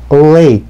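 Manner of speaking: lake with the L held a beat; tongue behind the teeth, hold the L in lake; delayed L. Shown as a demonstration. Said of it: "한 박자 느리게 lake가 아니라". (한 박자 느리게 lake)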